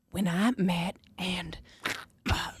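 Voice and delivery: mock Madison. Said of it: "you sound like Madison".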